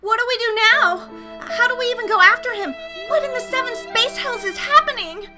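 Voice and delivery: high, very loud distress; frantic exclaiming. Acted. Space Carry after losing her captain, in loud frantic alarm. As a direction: cry out in baffled panic.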